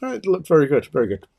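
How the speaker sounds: a hint of an Irish accent; very good with a touch of Irish lilt; slight Irish lilt. Real, not acted. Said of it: "I sounded a little bit Irish there".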